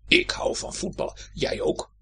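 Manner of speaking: a little whispered shoe voice; whispering shoe. Acted. The left shoe asks the right shoe about football, whispered. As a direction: breathe it like a tiny secret creature.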